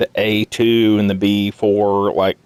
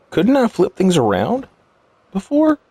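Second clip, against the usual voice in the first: surprised rising question; 10 semitones higher than usual. Real, not acted. Puzzled at game mechanic.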